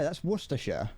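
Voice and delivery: Worcestershire said WUSS-ter-sher, clipped; British Worcestershire. Shown as a demonstration. Streamer teaching chat, Worcestershire said WUSS-ter-sher. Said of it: "We pronounce it like that".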